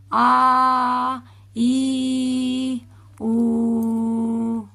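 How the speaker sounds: آ, ای, او read as clean single vowels; fluent hamza reading. Shown as a demonstration. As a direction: say each vowel crisply. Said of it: "ہے کی آواز آئے گی". (صاف آواز میں آ ای او)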